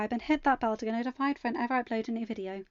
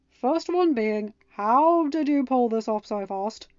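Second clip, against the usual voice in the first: amazed question; 6 dB louder, slower than usual. Acted. Ben questions the surprise picnic.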